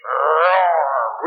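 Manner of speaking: long rolling lion roar; drawn-out mock lion's roar; demonstrated roar. Shown as a demonstration. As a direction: roar for the crowd to copy. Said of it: "real, real loud".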